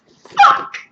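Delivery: high loud relieved yell. Real, not acted. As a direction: shout it out as it's over. Done with bird.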